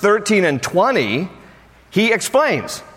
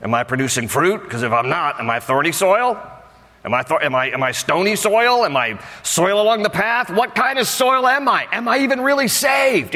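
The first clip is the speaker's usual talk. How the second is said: anxious believer; 2 semitones higher than usual. Retold or imitated. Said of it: "then try to think".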